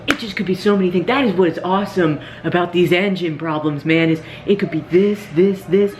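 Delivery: high, fast, breathless enthusiasm; excited gushing. Retold or imitated. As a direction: gush like an engine nerd. Mechanic gushing about engine problems.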